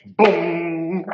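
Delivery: loud, drawn-out boom; boom sound. A narrator's reading. Storyteller sounds paper hitting the witch, loud boom. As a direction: let the boom burst and ring.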